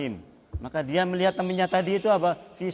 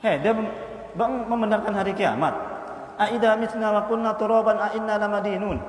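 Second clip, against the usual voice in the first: mocking friend; 5 semitones higher than usual.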